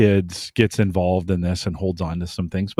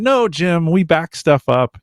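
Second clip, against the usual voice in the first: lightly voiced protest, pitched higher; objecting listener; 6 semitones higher, slower than usual. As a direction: imitate a listener pushing back, higher. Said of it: "I know what you're saying".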